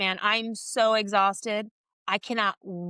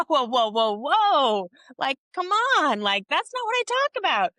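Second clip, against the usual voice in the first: higher and louder, a hammed-up recoil; mock alarmed protest; 4 semitones higher, 4 dB louder than usual. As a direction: throw up your hands in mock alarm, rising. Retells protest at therapist's suggestion.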